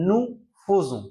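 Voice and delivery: nous faisons, fai said as "fo", "nu fozon"; careful correct pronunciation. Shown as a demonstration. Teacher warning students how to say nous faisons. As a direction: model nous faisons slowly with the o sound. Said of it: "attention, আমাদের এটা উচ্চারণ করতে হবে".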